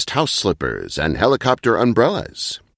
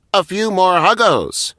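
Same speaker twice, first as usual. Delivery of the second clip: light, high robot voice; a chipper little robot with a bright idea; robot Huggo voice; 9 semitones higher than usual. A narrator's reading. Huggo suggesting to Muggo, lightly voiced robot. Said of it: "Huggo said".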